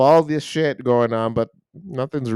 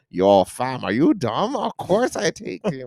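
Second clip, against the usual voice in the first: higher, slower street-slang answer; mock slang bride; 6 semitones higher, slower than usual. Pretend bride answering the officiant in slang. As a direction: answer the vows like it's obvious, fam. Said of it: "imagine going up on the aisle".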